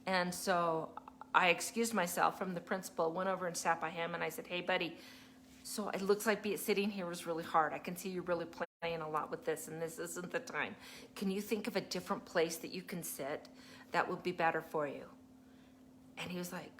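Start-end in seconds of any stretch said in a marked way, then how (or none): 4.5-15.1 softer, calm teacher talk; gentle coaxing. Retold or imitated. Teacher helping a fidgety boy move seats, gentle. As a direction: quietly reason with a little one. Teacher retells talking to struggling child.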